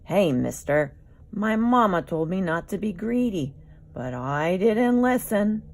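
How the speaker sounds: loud, whiny plea from a hungry dino; young dinosaur calling to Mario for help; pleading Lystrosaurus. Acted. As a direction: beg the stranger to help you, a little pitifully.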